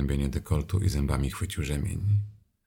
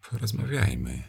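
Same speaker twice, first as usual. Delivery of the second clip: smiling offer; 7 semitones higher than usual. Acted. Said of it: "zaproponowałam z uśmiechem".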